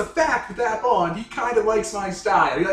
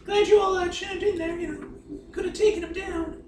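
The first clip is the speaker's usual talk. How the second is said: high sarcastic voice; 12 semitones higher than usual. Acted. In character, sarcastic thanks.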